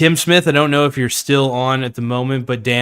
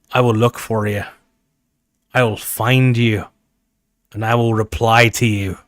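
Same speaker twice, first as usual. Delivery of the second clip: hammed-up Sean Connery accent threat; a touch of Sean Connery menace; Sean Connery impression; 2 semitones lower than usual. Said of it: "so I'm doing this as, as Sean Connery".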